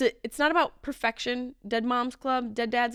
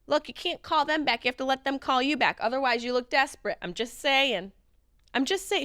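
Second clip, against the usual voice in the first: higher, know-it-all mom voice; a lightly voiced advice-giving mother; imitating mom; 4 semitones higher than usual. Comedian imitating his mother's catchphrase, higher and sure of herself. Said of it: "She would just be like".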